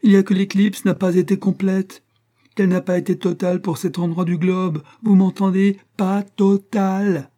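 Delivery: high, loud, indignant tirade; outraged cry. A narrator's reading. Astronomer announcing the eclipse was not total, loud outraged cry. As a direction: rail loudly, dragging out the final words. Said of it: "s'écria l'astronome".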